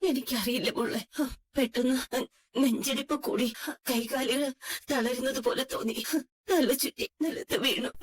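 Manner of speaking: halting, with pauses between phrases; weak, recovering. Acted. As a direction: recount it haltingly, drained after fainting. Sick mother just regained consciousness. (തളർന്ന്, നിർത്തി നിർത്തി)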